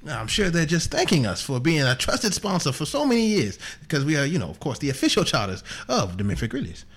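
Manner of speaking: John Thomas Aloysius Booth. Acted. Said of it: "It's John Thomas Aloysius Booth here".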